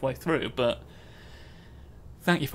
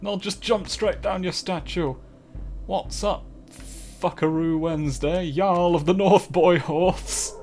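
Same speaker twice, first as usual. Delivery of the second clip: silly cheerful greeting; 3 semitones higher, 4 dB louder than usual. Pretend. Greeting a silly named Jarl.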